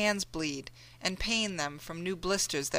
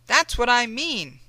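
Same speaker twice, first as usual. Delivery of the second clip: higher and louder, sharp; Mammy scolding John, angry; angry retort; 6 semitones higher, 8 dB louder than usual. Acted. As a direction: throw it back at him.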